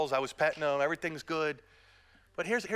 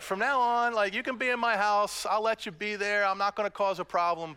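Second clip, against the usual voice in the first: mock scolding; 4 semitones higher, 4 dB louder than usual. Retold telling off the dog.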